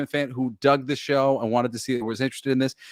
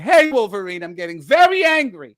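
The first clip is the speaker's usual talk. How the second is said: campy Morph; 4 semitones higher, 6 dB louder than usual. Pretend. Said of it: "he'd be like".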